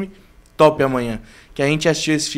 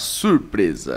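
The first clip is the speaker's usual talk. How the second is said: radio host announcing style; 10 semitones lower, 3 dB quieter than usual. Quoting how Doni says it, imitating Doni's radio-announcer voice. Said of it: "com voz de locutor de rádio".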